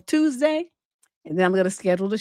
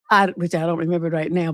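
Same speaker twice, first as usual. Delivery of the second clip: usual speaking voice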